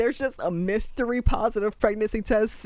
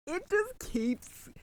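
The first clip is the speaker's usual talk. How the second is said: squeaky disbelief; 13 semitones higher, 6 dB quieter, slower than usual. Real, not acted. Reacting to shocking plot twist.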